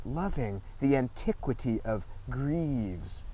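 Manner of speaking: measured poetry recital, phrase by phrase; deliberate literary reading with falling line ends; poem reading. Acted. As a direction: read it as a poem, pausing between images. Reads second poem aloud.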